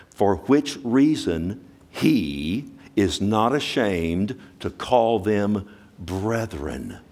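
very slow, drawn-out reading; solemn scripture reading. Acted. Preacher reading Hebrews slowly to the congregation, solemn. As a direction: linger over each word reverently.

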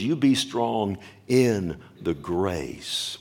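slow, every word weighed, "be" stressed; solemn command. Shown as a demonstration. Preacher to his church, slow solemn command. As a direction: lay it down like a divine command. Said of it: "This is a command".

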